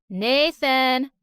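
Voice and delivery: loud call across the lawn. Acted. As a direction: shout his name over. Boy calls out to gardener.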